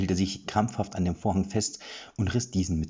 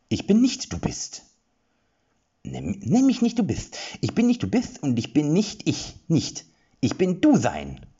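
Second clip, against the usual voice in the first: much higher and louder, exasperated; frustrated rage; 9 semitones higher, 5 dB louder than usual. Acted. Confused creatures arguing over names, furious squeal. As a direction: spiral into angry confusion. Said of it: "Erik redete sich in Rage".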